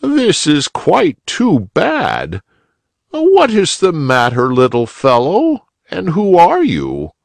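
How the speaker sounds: high, slow, gentle questioning; kindly old rabbit. A narrator's reading. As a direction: comfort the little boy. Uncle Wiggily voice.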